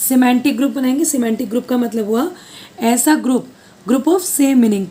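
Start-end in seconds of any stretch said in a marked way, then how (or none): 3.9-4.9 slow and spelled out. Shown as a demonstration. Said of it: "क्या बोलते हैं इसको हम".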